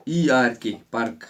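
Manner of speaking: ई आर के spelled, then पर्क said as "perk"; spelling then saying. Shown as a demonstration. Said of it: "ए उच्चारण हो गया ना".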